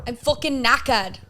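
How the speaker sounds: attempted Yorkshire accent, drawn out slowly. Shown as a demonstration. Actor put on the spot by castmates, attempting a Yorkshire accent. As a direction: have a go at Yorkshire, taking it slowly. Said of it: "do a Yorkshire accent".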